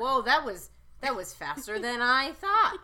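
loud, high mock British; hammed-up British astonishment, drawn out; British accent. Contestant amazed at the hour going by, hammed-up British accent. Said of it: "the most offensive British accent".

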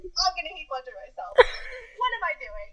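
rising panicked yelp; mock panic. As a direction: play up the alarm, half joking. Retold panic over pills.

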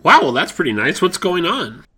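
loud, shouted banter. Acted. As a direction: belt it out like live TV. Segment shouted loudly.

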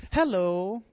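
playful attempt at a British voice; British accent. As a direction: put on a hammy British hello. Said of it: "That's my best British voice in Louisiana".

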